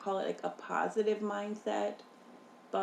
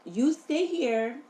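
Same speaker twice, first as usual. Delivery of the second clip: firm, louder mock parental orders; imitating strict parents; 4 dB louder than usual. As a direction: lay down the rules like a parent. Voices strict parents giving orders.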